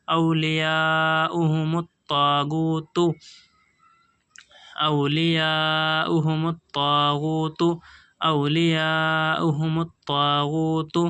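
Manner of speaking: slow, measured tajweed recitation; slow Quran recitation. Shown as a demonstration. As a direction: draw the words out slowly, chanting. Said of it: "teacher recites the joined words".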